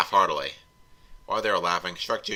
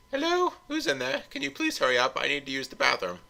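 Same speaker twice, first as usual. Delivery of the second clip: higher-pitched, slightly Scottish lilt; Scottish accent; 5 semitones higher than usual. Acted. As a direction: call out with a hint of Scottish. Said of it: "That sounded really Scottish".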